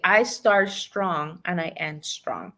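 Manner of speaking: x0.6 slow, each word weighted; slow affirmation. Shown as a demonstration. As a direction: lay it down slowly like a vow. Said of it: "I want you to say today".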